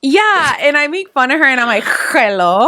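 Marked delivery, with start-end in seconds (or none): 2.1-2.7 mocking Kimmy's hello. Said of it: "I don't say it like that".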